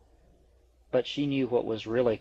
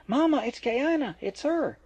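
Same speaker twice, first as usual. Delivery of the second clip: high, bubbling call to mom; girl calling her new mama to the phone, thrilled; excited calling out; 13 semitones higher than usual. Acted. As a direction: announce the news, overjoyed. Echo calling out to her mother.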